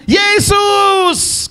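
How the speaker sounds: long, high-pitched call; shouting. Acted. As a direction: holler the name over a crowd. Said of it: "kenapa dia teriak?".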